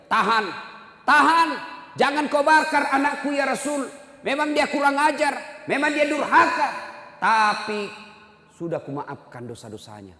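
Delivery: loud, high, desperate pleading; pleading scream. Retold or imitated. Mother screams at the Prophet to spare her son. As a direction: cry out to stop them, begging. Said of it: "ibunya berteriak".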